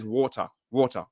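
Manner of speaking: water said "WAR-tuh", no R; Australian soft R. Shown as a demonstration. Australian insisting on how it is said, water without R. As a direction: drop the R at the end of "water". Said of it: "we never pronounce the R".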